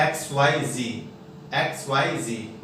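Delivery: "जी" as zee closing X, Y, Z; slow letters ending on "जी" with no d; American Z. Shown as a demonstration. Teacher drills American alphabet, zee. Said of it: "American में पढ़ेंगे".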